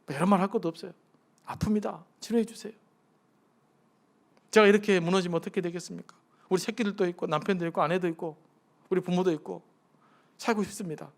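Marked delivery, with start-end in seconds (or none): 1.5-11.1 honest pleading prayer. Shown as a demonstration. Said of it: "그게 정직한 거예요".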